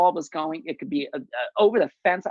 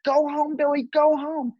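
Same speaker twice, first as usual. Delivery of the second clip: a much higher, urgent call; calling home; 11 semitones higher than usual. Retold or imitated. Father hailing his son to home plate, an urgent high call. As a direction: wave him in with your voice. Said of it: "he's hailing me home".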